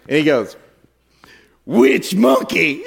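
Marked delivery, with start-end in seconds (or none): 1.7-2.8 slow, loud, high punchline; shouted punchline. Retold or imitated. Pastor shouting his friend's punchline to the congregation, slow loud. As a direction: belt out the punchline slowly.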